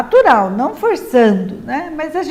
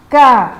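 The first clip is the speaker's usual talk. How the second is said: "cavalo" as three loud, separate syllables; "cavalo" very deliberately, ca, va, lo; well-punctuated syllables; 6 dB louder, faster than usual. Shown as a demonstration. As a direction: articulate each syllable of "cavalo" with long gaps. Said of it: "pronunciando bem pontuado a boca".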